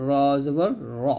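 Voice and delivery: thick, rounded "র" in "জবর র"; heavy letter. Shown as a demonstration. Teacher reminding learners specially, "র" said heavy. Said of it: "রটাও মোটা হবে".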